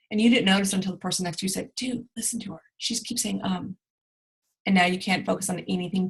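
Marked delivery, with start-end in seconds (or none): 1.8-3.8 whispered aside. Retold or imitated.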